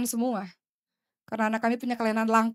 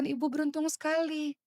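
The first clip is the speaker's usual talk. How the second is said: wistful retold words; 5 semitones higher than usual. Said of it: "saya katakan".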